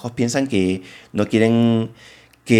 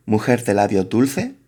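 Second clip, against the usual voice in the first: poem reading. Shown as a demonstration. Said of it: "Por ejemplo, en el poema de".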